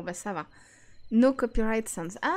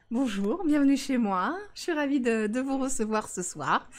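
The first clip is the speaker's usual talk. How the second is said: lightly done composed hostess; a hint of a gracious hostess greeting; poised hostess voice. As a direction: welcome the guest like a polite hostess. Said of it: "j'ai pris ma petite voix de, voilà, posée".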